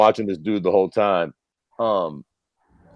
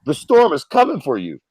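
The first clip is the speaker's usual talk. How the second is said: higher-pitched mock weatherman; urgent warning; 5 semitones higher than usual. Weatherman on TV warning locals of the storm, imitated urgency. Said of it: "homeboy on the fucking T V being like".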